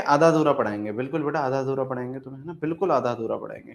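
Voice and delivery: fast sarcastic. Real, not acted. Teacher mocking students' wish.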